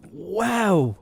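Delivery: loud, high, drawn-out wow; stunned reaction. Retold or imitated. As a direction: re-enact being floored by what you heard. Retold stunned reaction to abuse.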